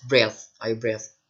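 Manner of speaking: slow, careful breath, I breath; teacher modelling breath; slow model read. Shown as a demonstration. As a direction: spell it out slowly for the class. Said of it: "Kalau pakai ing dia beda ngomongnya".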